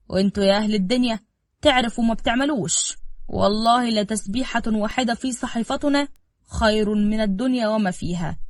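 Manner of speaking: a lightly voiced elderly father giving earnest advice; old father preaching. Old father counsels son Saafan, earnest preaching tone. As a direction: lecture the son gently but firmly on faith.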